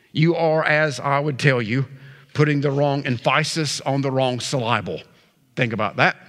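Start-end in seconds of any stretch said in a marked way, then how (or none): 2.3-5.0 "emphasis" said em-FYE-sis, "syllable" said sil-EYE-bul; misplaced stress. Shown as a demonstration. Joke mispronounces emphasis and syllable.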